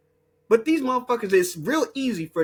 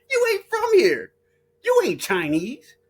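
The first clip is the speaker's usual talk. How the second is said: higher and louder, still laughing through it; high laughing retort; 11 semitones higher, 3 dB louder than usual. Retold or imitated. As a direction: fire it back, cracking up.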